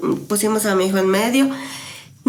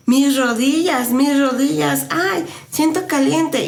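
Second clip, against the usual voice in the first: put-on child voice; 5 semitones higher, slower than usual. Son's words during healing, voiced.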